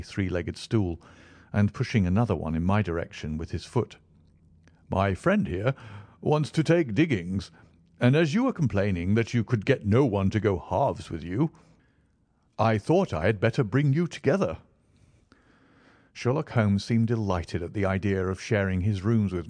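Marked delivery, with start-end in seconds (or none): 4.9-14.6 Stamford voice. Acted.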